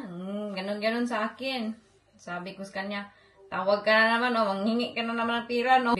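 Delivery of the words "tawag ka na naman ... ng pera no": louder, fast scolding of a father asking for money; blunt scolding. Retold or imitated. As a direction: scold him straight out, quick and loud. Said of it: "Diretso ko daw siya prinangkahan". (mabilis at malakas na pagsermon)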